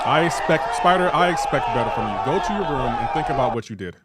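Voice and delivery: loud, half-joking parental scold; hammed-up parent sending a kid to his room; mock scolding parent. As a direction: scold him like a disappointed dad.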